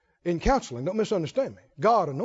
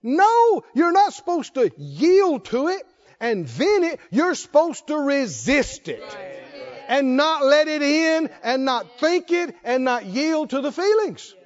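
emphatic pulpit correction; forceful preaching; 4 semitones higher, slower than usual. Real, not acted. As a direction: preach it firmly, leaning on each command.

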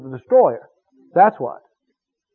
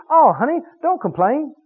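spouse's gentle rebuke; 8 semitones higher than usual. Retold or imitated. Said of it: "And one of the ones says".

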